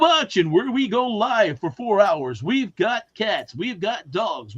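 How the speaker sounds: slow, drawn-out auction host intro; auction announcer. Retold or imitated. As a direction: announce it to a live auction crowd. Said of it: "announcer voice that he's teaching you".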